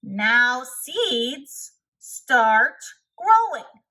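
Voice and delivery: hammed-up shout at the ground. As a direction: yell at the seeds so they obey.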